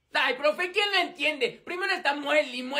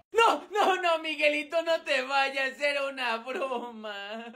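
pleading shout; slower than usual. Acted. Begging friend to stay.

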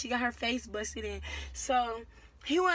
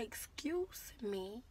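polite request; 7 dB quieter, much slower than usual. Shown as a demonstration. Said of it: "if somebody say".

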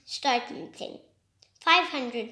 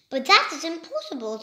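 disbelieving; 3 semitones higher, 4 dB louder, faster than usual. Acted. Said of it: "says Penguin".

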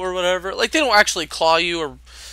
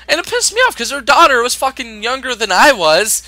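rising anger; 7 semitones higher, 5 dB louder than usual. Real, not acted. Angry rant at customers.

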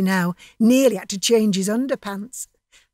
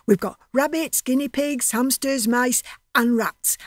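higher, eager listing; excited listing; 4 semitones higher than usual. Acted. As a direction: rattle off the animals with glee. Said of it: "he was so excited".

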